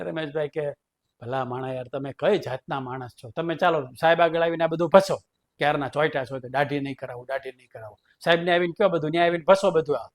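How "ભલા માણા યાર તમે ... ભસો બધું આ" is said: mildly mock-angry scolding; a touch of an annoyed principal telling him off; irritated principal. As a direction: snap back at the stubborn teacher, lightly voiced. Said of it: "ખીજાઈ ગયા સાહેબ".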